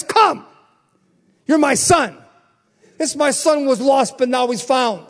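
loud, welcoming call; preaching God's welcome. Acted. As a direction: call the lost son home. Voicing God calling son.

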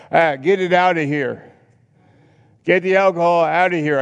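high, loud order to clear the house; booming house-cleaning command; commanding shout. Retold or imitated. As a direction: throw it out with full force. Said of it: "Jesus would come into your house and say".

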